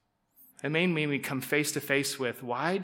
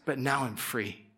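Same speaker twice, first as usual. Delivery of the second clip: relieved; 5 semitones lower, 5 dB quieter than usual. Shown as a demonstration. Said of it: "You see the difference?".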